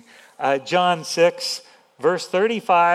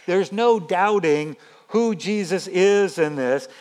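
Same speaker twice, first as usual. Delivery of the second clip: ordinary talk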